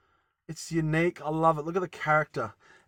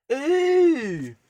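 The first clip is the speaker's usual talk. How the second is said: disgusted ew; 12 semitones higher, 6 dB louder than usual. Real, not acted. Disgust at hair on blade.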